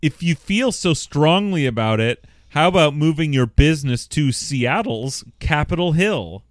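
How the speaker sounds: measured, emphatic read-out; reading a letter aloud. A narrator's reading. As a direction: read it out to the room, stressing key words.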